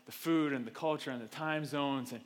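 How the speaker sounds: soft, low worried whine; whiny doubting voice. Retold or imitated. Churchgoer dreading the long trip, soft whiny doubt. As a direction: sigh out every excuse. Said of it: "you hear the voice like".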